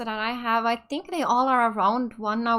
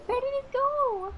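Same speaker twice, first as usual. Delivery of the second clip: laughing; 13 semitones higher, 4 dB quieter than usual. Real, not acted. Laughing while searching in game.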